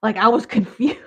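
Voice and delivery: whispered with a laugh; breathy laughing whisper. Real, not acted. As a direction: giggle it under your breath.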